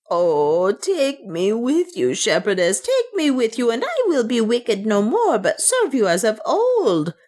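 shrill despairing cry. A narrator's reading. Servant begging her mistress to take her, shrill despair. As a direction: implore in a shrill, swooping pitch. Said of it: "shrilled the voice of Soa".

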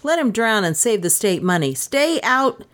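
calling out the window, rising to a high last stay out; a hint of a yell at the dog, peaking at the end; mild shouting.

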